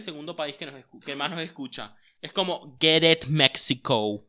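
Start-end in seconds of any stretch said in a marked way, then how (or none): 2.8-4.3 cheering. Pretend. Cheering the country.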